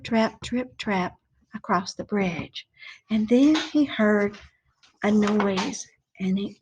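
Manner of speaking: put-on storytelling voice for children; story narration. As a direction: read it like a bedtime story. Teacher tells story to class.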